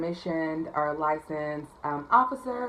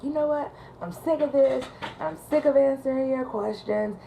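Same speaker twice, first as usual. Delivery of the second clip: fed up; 9 semitones higher than usual. Retold or imitated. Caller fed up with questions.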